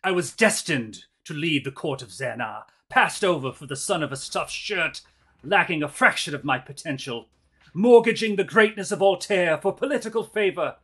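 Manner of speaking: loud villain monologue, rising to a shout; slow theatrical villain menace. Acted. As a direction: gloat like a scheming noble. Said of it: "give me a villain monologue".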